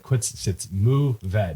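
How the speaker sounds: deliberate French-style "Mourvèdre", ending on a clear VED; French pronunciation. Retold or imitated. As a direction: say Mourvèdre slowly in two syllables, moo-VED. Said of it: "She's like".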